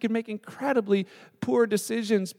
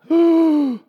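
high loud surprised "Oh"; a dawning "Oh" pitched way up; 8 semitones higher, 8 dB louder than usual. Retold or imitated. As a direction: disciples suddenly realizing, loud and high. Disciples realize.

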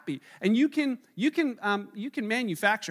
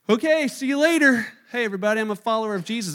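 eager disciples; 2 semitones higher, 7 dB louder, faster than usual. Retold or imitated. Disciples calling out to everyone, eagerly. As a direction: blurt it out like a thrilled new follower.

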